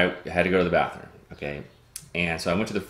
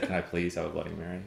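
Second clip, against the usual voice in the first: polite request; 8 dB quieter than usual. Retold or imitated. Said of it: "I said".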